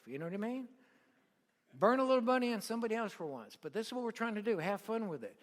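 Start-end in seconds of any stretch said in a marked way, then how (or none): 1.7-3.6 higher, louder and fast, a teasing rebuke; loud scold. Real, not acted. Preacher scolding the crowd, loud and fast. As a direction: push them hard to burn a little money.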